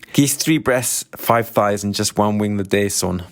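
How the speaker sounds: put-on thick, quick Glaswegian accent; clumsy attempt at a Glaswegian shop customer. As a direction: rattle off the order in broad Glaswegian. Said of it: "that is not a great Scottish accent".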